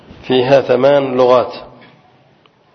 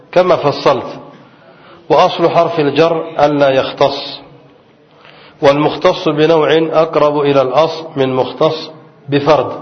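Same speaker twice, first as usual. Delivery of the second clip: reading a text aloud; 2 semitones higher than usual. Acted. Teacher reads the quoted grammar text to students, in recitation style. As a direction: read the old commentary aloud to the class.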